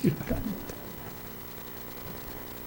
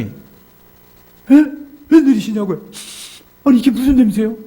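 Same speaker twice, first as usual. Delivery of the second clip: high, loud startled questions; startled questioning; 10 semitones higher, 4 dB louder than usual. Retold or imitated. Pastor greeting a tipsy deacon at the door, startled. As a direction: act out a taken-aback greeting.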